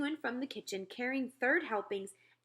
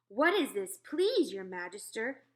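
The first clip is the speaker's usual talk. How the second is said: big booming giant, slow and loud; the BFG asking politely but loudly; giant's voice; 6 dB louder than usual. Acted. Giant asks the Queen at breakfast.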